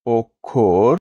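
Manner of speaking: অক্ষর said as "okkhor"; careful, separated অক্ষর as "ok-khor"; correct pronunciation. Shown as a demonstration. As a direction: double kkh in অক্ষর. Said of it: "কোন উচ্চারণটি শুদ্ধ".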